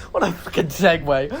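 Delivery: laughing while talking. Real, not acted. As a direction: laugh through the words. Laughing at segue.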